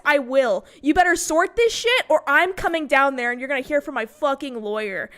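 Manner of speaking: loud furious mom threatening; angry threats. Retold or imitated. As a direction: lay into them, raising your voice. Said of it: "started screaming at them".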